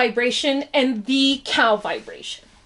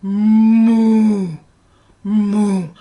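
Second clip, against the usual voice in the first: low, loud lowing moo; deep mooing cow; 5 semitones lower, 6 dB louder than usual. Shown as a demonstration. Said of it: "we're gonna do the sound of a cow".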